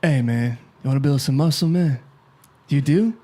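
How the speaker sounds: lightly voiced YouTube bodybuilder duo; a rough, not very accurate comic imitation; Hodge twins. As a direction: loose impression of muscle-head twins. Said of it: "you know the Hodge twins from YouTube".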